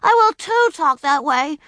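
put-on high, loud defiant child; high loud stubborn insistence; defiant outburst. A narrator's reading. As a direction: talk back to father, loudly. Child defying her father.

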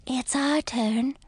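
slow breathy spider whisper. A narrator's reading. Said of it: "breathed one of the spiders".

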